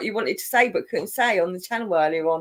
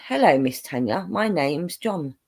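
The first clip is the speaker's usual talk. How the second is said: mock Indian accent, slightly lower; thick Indian accent; 3 semitones lower, 3 dB quieter than usual. Imitating a foreign phone caller, thick Indian accent. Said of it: "a thick Indian accent".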